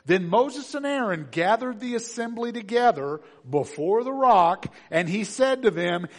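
loud, measured Bible reading; scripture reading. Acted. Preacher reading Numbers twenty to the congregation, proclaimed. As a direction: proclaim the verses to the church.

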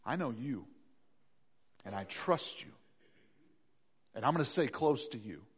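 soft, low, calm confidence; hushed, steady trust; trusting prayer. Acted. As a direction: pray quietly, fully at peace. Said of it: "A believer's prayer says".

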